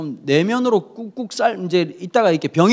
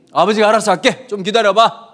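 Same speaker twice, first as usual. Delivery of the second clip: dismissive father; 4 dB louder than usual. Acted. Father voiced brushing son off.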